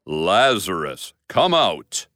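Jesus calling Lazarus from the tomb, commanding shout. Acted. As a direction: call him out of the tomb with authority. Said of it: "But Jesus shouted".

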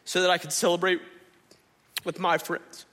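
sulking son airing his grievance; resentful older son. Retold or imitated. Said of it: "He says".

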